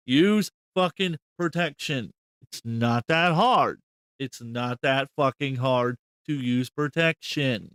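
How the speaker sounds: slow, emphatic scolding; exasperated lecture. Real, not acted. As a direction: spell it out slowly, word by word.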